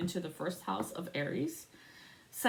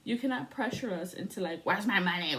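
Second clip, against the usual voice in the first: sassy comeback; 4 semitones higher than usual. Retold or imitated. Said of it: "I was like".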